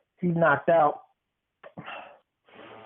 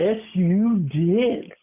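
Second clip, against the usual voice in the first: teasing sing-song; 3 semitones higher, much slower than usual. Real, not acted. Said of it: "teasing insistence, drawn out".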